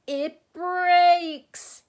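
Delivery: very high, loud, overjoyed cry; joyful outburst. A narrator's reading. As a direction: cry it out, overcome with joy. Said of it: "he gasped joyfully".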